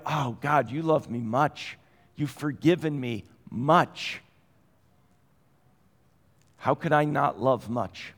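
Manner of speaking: a sinner gratefully addressing God; prayerful. Retold or imitated.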